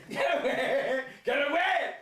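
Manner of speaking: high, loud panicked shout. Acted. Crab yelling at the prawn to get away, loud and high. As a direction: yell it while fleeing.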